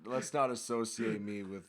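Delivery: half-laughing denial, pushing the joke away; laughing protest. Real, not acted. Co-host laughs off being linked to dictators.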